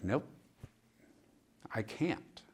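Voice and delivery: breathy whisper, barely there; whispering no to the social worker; whispered refusal. Retold or imitated. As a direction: hush it as a quiet refusal.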